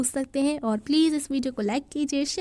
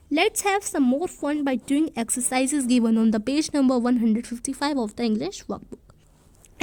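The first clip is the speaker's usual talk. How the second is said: slow reading; much slower than usual. Shown as a demonstration. Teacher reads workbook instruction aloud.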